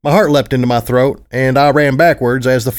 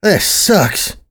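groaning; 6 semitones higher than usual. A narrator's reading. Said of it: "I groaned".

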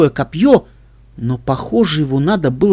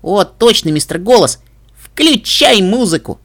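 excited filly; 5 semitones higher, 3 dB louder, slower than usual. Acted. Filly calls to the robot.

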